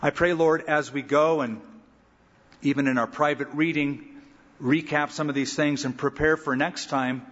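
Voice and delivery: calm, steady pastoral prayer voice. Real, not acted. Pastor closing Bible study, calm earnest prayer. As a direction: pray earnestly over the group.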